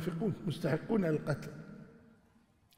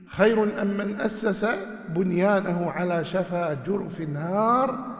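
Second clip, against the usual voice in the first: Quran recitation; much slower than usual. Acted. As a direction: recite the verse with measured tajweed. Verse recited slowly.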